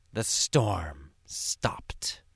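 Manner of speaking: slow, breathy whisper of relief; hushed whisper. Shown as a demonstration. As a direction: let the calm settle in. Storm ends, hushed storytelling.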